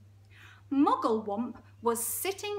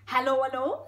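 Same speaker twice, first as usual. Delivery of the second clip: loud, lilting Geordie greeting rising high; Geordie hippo; 3 semitones higher, 8 dB louder than usual. Acted. Hippo greeting the crocodile, Geordie accent. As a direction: sing out a hello in broad Geordie. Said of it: "It's really Geordie".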